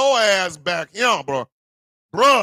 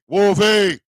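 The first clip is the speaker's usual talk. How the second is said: calling out; 4 dB louder than usual. Real, not acted. Calling to a friend on stream.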